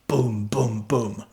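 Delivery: spoken "boom" as a techno kick; imitated kick drum. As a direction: thump out evenly spaced booms like a kick drum. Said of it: "you hear this big kick".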